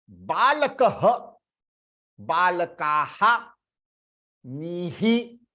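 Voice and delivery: बालकः, बालकाः, नीहि each ending in a light echo; visarga drill. Shown as a demonstration. Teacher reviewing visarga forms for the class. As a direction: run the three visarga endings in a row. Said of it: "तो ही को half करना है".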